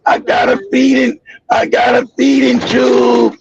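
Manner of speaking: slow, dragged-out words like a man who can hardly talk; imitating a sick friend. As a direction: stretch each word out like talking hurts. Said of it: "he like, he like".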